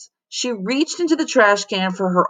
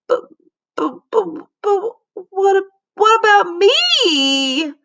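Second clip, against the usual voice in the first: high, stammering slow whine; girl yelling at being left without mittens; 13 semitones higher than usual. Acted. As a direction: stutter then wail the question. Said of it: "yelled Victoria".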